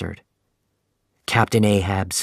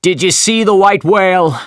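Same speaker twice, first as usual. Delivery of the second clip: high, loud shout across the water; a captain's loud hail from deck; 9 semitones higher, 7 dB louder than usual. Acted. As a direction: call out over the wind to another ship. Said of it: "Captain Ahab shouted from the Pequod".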